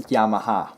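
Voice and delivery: Yamaha as 'YAH-ma-ha', with open 'ah' vowels; common pronunciation. Shown as a demonstration. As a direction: say Yamaha with broad 'ah' sounds. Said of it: "That's how people pronounce it".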